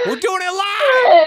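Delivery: high, loud, laughing yell of defiance; defiant shout. Acted. Host shouting to cohost that the show works, laughing yell. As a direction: bellow it like a cranky anchorman losing it.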